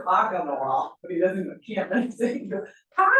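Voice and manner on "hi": imitating a toddler's loud scream; mock scream. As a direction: yell it like a small child. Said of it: "He's just screaming".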